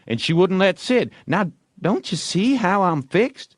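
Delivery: lightly voiced sorry-not-sorry; apologetic Tom. A narrator's reading. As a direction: explain with fake regret. Tom excusing himself.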